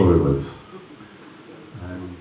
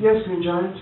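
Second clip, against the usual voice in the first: put-on high, grand old-man reply; imitating Lawrence's fond reply; old actor voice; 11 semitones higher, 4 dB louder than usual. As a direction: answer like a gracious elderly knight. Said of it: "he said".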